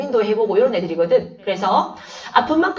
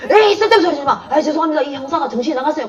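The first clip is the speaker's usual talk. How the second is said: flustered scolding colleague; 5 semitones higher, faster than usual. Retold or imitated. Colleague scolds detective, apologizes.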